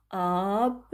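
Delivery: "Absent" drawn out as "Ab", long pause, "sent"; syllable-by-syllable dictation. Shown as a demonstration. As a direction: split "Absent" into two slow syllables for writing. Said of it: "je l'écris". (« Absent » dicté lentement, syllabe par syllabe)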